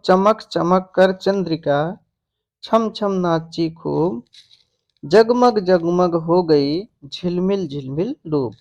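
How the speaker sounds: slow, softened recital of a verse; verse recitation. Shown as a demonstration. Teacher reciting an example verse to students, slow and measured. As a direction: read the couplet slowly, word by word.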